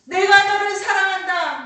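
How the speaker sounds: very loud, high-pitched declaration of love; preacher's ringing cry; emphatic proclamation. Acted. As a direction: proclaim it at full force.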